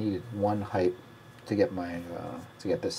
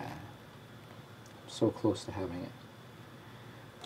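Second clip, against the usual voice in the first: whispered to self; 11 dB quieter, much slower than usual. Real, not acted. Muttering to himself about his play.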